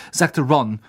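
usual speaking voice

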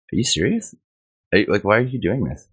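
retold disbelief, pitch lifting on the question; mildly acted "are you kidding me" protest; indignant questioning, retold; incredulous. Retelling his disbelief at being thrown out.

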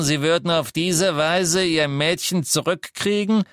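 contemptuous interrogation; angry Death Eater. A narrator's reading. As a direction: Selwyn taunting the liar. Selwyn accuses Lovegood.

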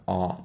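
"R" as a plain open "ah"; silent R. Shown as a demonstration. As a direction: say "R" as "ah", tongue down. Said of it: "no R".

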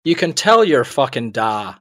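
slow, lightly voiced Northern Irish grump; Northern Irish accent. Grumpy singer rebuffing the neighbour's boy, Northern Irish accent. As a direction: deliver it slowly in put-on Northern Irish. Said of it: "this is my Northern Irish accent".

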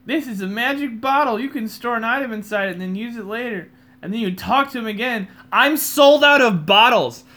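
loud high-pitched mock announcer; high loud game voice. Reading game text in loud voice.

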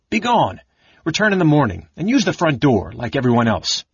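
indignant scolding. Acted. The librarian scolds the intruder for coming after hours, indignant. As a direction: shoo him off like a fussy doorkeeper. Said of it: "Bertram glared at the intruder".

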